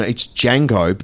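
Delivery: gentle correction of "Django". Shown as a demonstration. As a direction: say "Django" as jang-go, D silent. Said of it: "no, no, no".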